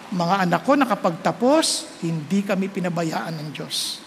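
a quiet, awed confession that God never abandoned him; hushed and grateful; softly moved testimony. Real, not acted. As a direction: drop the voice low and hushed, full of gratitude.

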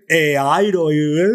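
"Eh, Airo" as an awkward tongue-twister; mock difficulty getting "Eh, Airo" out; mouth-twisting pronunciation. Shown as a demonstration. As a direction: struggle through the vowels of "Eh, Airo". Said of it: "la boca la tienes que torcer".

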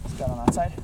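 straining under a heavy bag; strained voice while lifting; carrying heavy load. Real, not acted. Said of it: "help me lift it".

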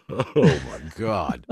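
slow "oh my God" through laughter; laughing. Real, not acted. Recalling all his store pranks, laughing. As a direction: laugh while saying it, drawn out.

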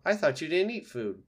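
high, loud fox voice; suspicious fox. Acted. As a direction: challenge the robot. Fox arguing with robot.

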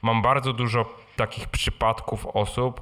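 normal talking voice

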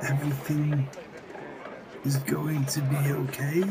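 "okay?" rises like a question; questioning tune. Acted. Comforting a troubled friend, questioning tune. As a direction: let "okay?" lift, unsure of the reassurance. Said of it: "You're saying it like a question".

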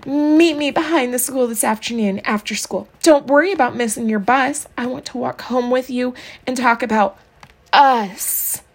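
mooning over a pretend sweetheart; moony voice. Leslie dictates a fake love note, moony. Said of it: "she continued in a moony voice".

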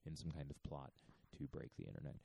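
conspiratorial whisper. Real, not acted. Guest in an echoing church, conspiratorial hush. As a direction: keep it down as if plotting. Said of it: "whispering like a co-conspirator".

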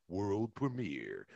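movie trailer voice. Shown as a demonstration. Guest shows voiceover chops, booming trailer announcer voice. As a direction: announce it like a blockbuster premiere. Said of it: "There's more bass in your larynx".

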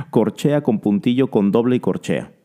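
rapid naming of note values; said quickly. Shown as a demonstration. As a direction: rattle off the rhythm names quickly. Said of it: "lo voy a decir lo más rápido posible". (nombrando las figuras muy rápido)

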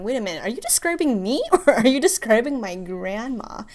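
amused and caught off guard, giggle mid-line; laughing disbelief. Retold or imitated. Realizing she resembles grandma.

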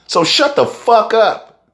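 high, slow scornful shut up; scornful dismissal. Real, not acted. Telling the baby boy with muscles off, slow high scorn. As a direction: drag out the shut up in contempt. Mocking the tough guy.

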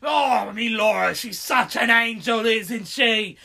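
a jolly London geezer, mildly hammed; British accent. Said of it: "the guy sounds like Murdoch Nichols".

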